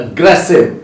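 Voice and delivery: एग्रेसिव with a short uh at the start, stress on GRES; demonstrated pronunciation. Shown as a demonstration. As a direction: model एग्रेसिव clearly for learners. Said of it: "और ये क्या होता है?".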